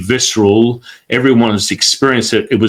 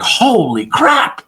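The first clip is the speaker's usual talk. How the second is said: much higher, thrilled exclamation; 11 semitones higher than usual. Retold or imitated. Student thrilled at his correct reading, much higher excited gush. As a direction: gush like you found a superpower.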